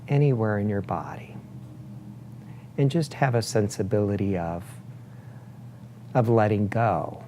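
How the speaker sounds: unhurried meditation guide, long pauses between phrases; guided meditation. Acted. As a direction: guide them gently into breath awareness, leaving space after each phrase. Leads a breathing meditation.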